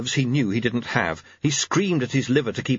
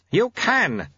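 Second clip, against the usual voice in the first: high, effortful reply; acted breathless encouragement; gasped; 10 semitones higher than usual. A narrator's reading. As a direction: gasp it back while running. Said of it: "gasped the sweeper".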